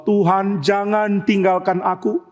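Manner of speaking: slow, drawn-out prayer; acted earnest entreaty, pitch rising on the repeat; pleading. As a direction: implore God, stretching each word. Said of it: "Daud minta satu hal".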